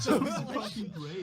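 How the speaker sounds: mock frat-boy enthusiasm; frat bro. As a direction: pitch it like an excitable bro. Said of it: "very frat bro looking".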